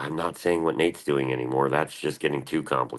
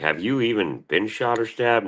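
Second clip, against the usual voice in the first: higher, slower mock mom voice; imitating mom; 7 semitones higher than usual. Mom quizzing his friends, mock high slow voice. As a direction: play his mom grilling people, pitched up and drawn out. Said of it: "she's like".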